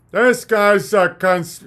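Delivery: slow, sneering critic voice; slow mocking sneer. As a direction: drag out the sneer at the conspiracy guy. Same mock, cut off.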